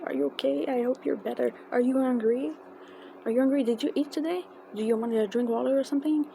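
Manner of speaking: retold string of eager, caring questions; caring concern. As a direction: imitate him fussing kindly over a fan. Retelling his concerned questions after hug.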